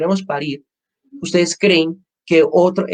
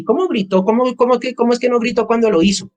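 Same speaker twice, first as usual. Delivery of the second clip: higher, scornful disbelieving question; mocking doctor; 6 semitones higher than usual. Doctor mocking a woman in labour, a touch higher and scornful. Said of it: "A ese sí es que así".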